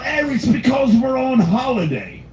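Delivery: a prank caller bluffing in a put-on English voice; hammy British excuse; English accent. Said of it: "that's the only accent I can barely do".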